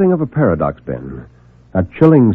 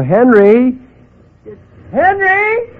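calling out; 13 semitones higher, 5 dB louder, much slower than usual. A narrator's reading. Calls for his lost friend.

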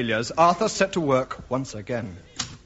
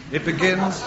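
corpsing; 4 semitones higher than usual. Real, not acted. Narrator corpsing before reading.

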